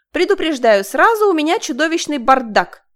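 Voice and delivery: high, loud and bubbly; cheerful. A narrator's reading. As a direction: announce it gleefully. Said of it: "радостно сообщила она".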